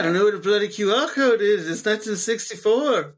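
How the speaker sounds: 1960s character voice. Pretend. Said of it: "I was in character".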